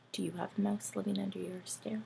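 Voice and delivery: soft unvoiced whisper; hushed aside. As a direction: whisper to the children.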